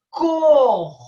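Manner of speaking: "Correção" sounded out emphatically with gaps between syllables. Shown as a demonstration. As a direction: break "Correção" into cor, re, ção. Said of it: "aquela que eu abro três vezes a boca".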